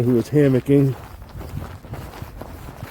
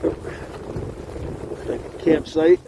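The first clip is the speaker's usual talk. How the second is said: whispered aside; 2 semitones higher, 7 dB quieter, much slower than usual. Real, not acted. Quiet aside while hiking.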